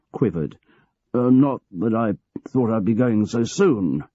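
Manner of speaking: a hint of a weary old manager, hesitant; aging boss George.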